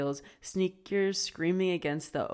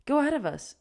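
mom's voice; 10 semitones higher, 5 dB louder, faster than usual. A narrator's reading. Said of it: "Pip's mom said".

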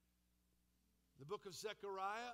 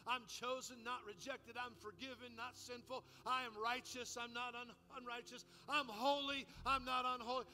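declaring scripture; 2 semitones higher, 4 dB louder than usual. Retold or imitated. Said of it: "Things like this".

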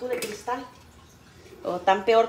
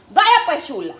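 mother's voice; 7 semitones higher, 6 dB louder than usual. Retold or imitated. Mother voiced instructing daughter.

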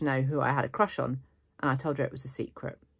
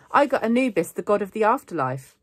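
loud, higher-pitched eager announcement; excited; 6 semitones higher, 8 dB louder than usual. A narrator's reading. Girl hyping her own museum assignment, excited. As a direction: show it off with keen energy.

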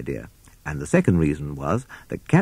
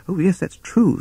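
high-pitched, relieved toad voice; 12 semitones higher than usual. Acted. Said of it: "looking very relieved".

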